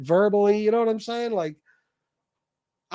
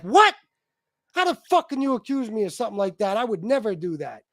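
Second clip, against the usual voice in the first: mimicking a liar who acts shocked and offended; mock indignant denial. Mocking women's indignant denial.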